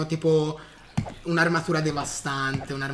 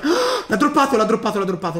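excited gasp; 4 dB louder, faster than usual. Real, not acted. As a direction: gasp then loud excited repeat. Pickaxe finally dropped.

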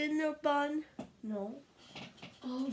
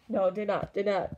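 shout; 3 semitones lower, 8 dB louder than usual. Real, not acted. Shouted refusal.

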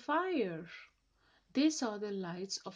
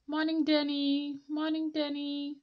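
higher, louder friendly hello; cheerful villager greeting; 7 semitones higher, 5 dB louder than usual. Acted. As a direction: sing out a morning greeting.

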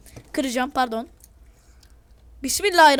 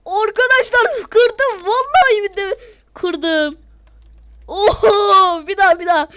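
excited; 3 semitones higher, 5 dB louder than usual. Real, not acted. Celebrating the broken record.

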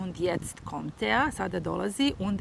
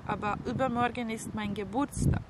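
higher, a touch of sadness; mildly sad; 4 semitones higher than usual. Acted. Sister objecting that it's her birthday, mildly sad. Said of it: "sie sagt traurig".

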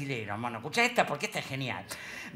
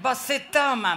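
Brazilian pastor; 6 semitones higher, 6 dB louder, slower than usual. Retold or imitated. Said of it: "Me dice el chabón".

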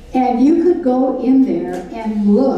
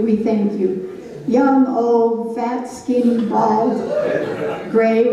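slow, earnest prayer voice; gentle pastor's prayer. Real, not acted. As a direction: pray it sincerely to God. Leads a prayer.

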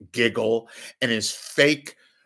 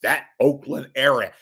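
mocking moronic voice; 3 semitones higher, 6 dB louder than usual. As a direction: drag out "that" like a dim announcer. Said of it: "that moronic voice".

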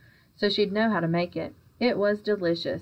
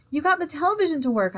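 higher, fast, thrilled outburst; excited shout; 9 semitones higher, 3 dB louder, faster than usual. A narrator's reading. Boy amazed Daddy fixed the television, excited shout. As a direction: blurt it out in delight, a bit louder. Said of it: "I shouted".

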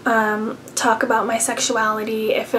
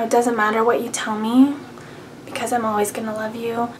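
tender reassurance; 3 dB quieter, faster than usual. Retold or imitated. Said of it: "stroking my hair".

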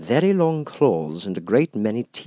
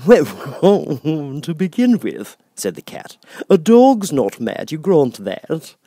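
grinning Cheshire Cat; 8 semitones higher, 8 dB louder than usual. Acted.

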